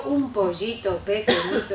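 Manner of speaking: cutesy little-chick voice, slow; the wrong way, playing a baby chick. Shown as a demonstration. Teacher shows the cutesy chick voice she avoids. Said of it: "yo no hago el pollito".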